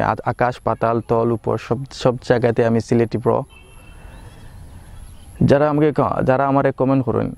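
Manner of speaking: switching into his home Sylheti dialect; proud, chatty Sylheti speech. Shown as a demonstration. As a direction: talk it out in casual Sylheti. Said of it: "আজকের ভিডিওতে আমি সিলেটি ভাষায় কথা বলবো".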